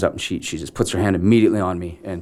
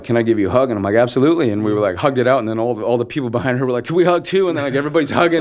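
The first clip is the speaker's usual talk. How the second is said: raised, louder, swept up in the moment; retold happy excitement; 6 semitones higher, 5 dB louder, faster than usual. Actor retelling a crowd asking to hug him, excited. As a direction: voice climbing to an eager high pitch.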